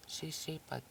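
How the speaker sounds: whispered syllables, one by one. Shown as a demonstration. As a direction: breathe each syllable without voice.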